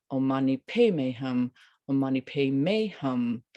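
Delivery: "Padme" stressed, the other words lighter; emphasis moved to "Padme". Shown as a demonstration. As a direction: press into "Padme". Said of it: "emphasize different syllables".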